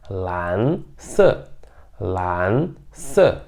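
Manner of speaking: "lan" closed with the tongue between the teeth; "lan se" with the tongue closing the "an"; Mandarin lan se. Shown as a demonstration. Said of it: "você percebe que eu fecho sempre com". ("lan" com a língua entre os dentes)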